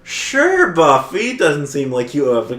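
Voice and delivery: acted-out, exaggerated agreement; mock humouring. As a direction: humour someone who is clearly not right. Acting out friends humouring the bot.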